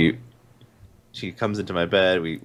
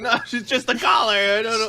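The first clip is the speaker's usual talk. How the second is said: high and pleading, defending the dog; high defensive owner voice; 12 semitones higher, 4 dB louder than usual. Retold or imitated. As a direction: insist it's fine in a raised voice. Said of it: "And I'm like".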